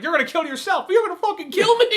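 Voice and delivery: high, loud, indignant; hammed-up outrage; mock outraged yell. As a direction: yell it in disbelief. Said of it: "He's like".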